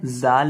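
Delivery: जाल begun with a buzzing English 'z'; mispronounced जाल, z instead of dh; wrong z sound. Shown as a demonstration. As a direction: say जाल with a z, as the mistake to avoid. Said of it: "जाल नहीं पढ़ना".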